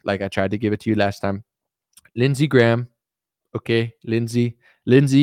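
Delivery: lightly voiced politician teasing allies; names punched, then easing into banter; a hint of Trump's back-and-forth verdicts; Trump impression. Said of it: "imagine Trump gets in".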